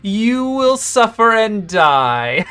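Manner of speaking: slow, menacing villain voice; cold rasping evil emperor. Acted. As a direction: drag it out like a gloating sorcerer. GM voices the wizard avatar.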